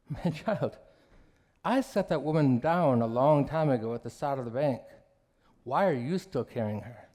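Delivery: a calm teacher letting the lesson land; gentle old monk. Acted. Senior monk calmly answering his upset student, gentle.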